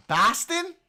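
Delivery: high incredulous "Boston?"; surprised question. Real, not acted. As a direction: rise sharply, caught off guard. Surprised echo of a suggestion.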